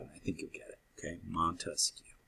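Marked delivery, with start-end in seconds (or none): 1.3-2.1 Montesquieu whispered softly, no voice; whispered memory cue Montesquieu; whispered name. Shown as a demonstration. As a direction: hush Montesquieu like a secret. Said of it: "just say it aloud".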